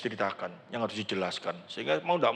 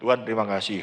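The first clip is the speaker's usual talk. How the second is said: offhand thanks; 6 semitones lower, faster than usual. Retold or imitated. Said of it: "Tapi setelah sembuh".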